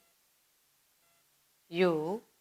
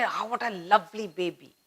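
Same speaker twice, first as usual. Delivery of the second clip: put-on softer, cooing over the baby; tender delight; 8 dB quieter than usual. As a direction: gently admire the newborn. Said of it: "everybody is happy about it".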